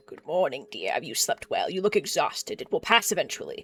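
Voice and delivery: put-on sly old crone. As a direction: purr the threats like a knowing crone. Voices old crone character.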